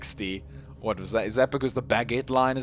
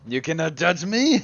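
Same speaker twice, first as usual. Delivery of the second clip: mock-defiant silly French accent; crazy French accent; 3 semitones higher, 4 dB louder than usual. Streamer jokingly defending himself to viewers, crazy French accent. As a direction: play up a comic French accent. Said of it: "and the crazy accent".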